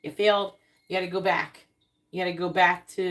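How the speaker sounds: a hint of a strict examiner failing you; stern universe. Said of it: "the universe is like".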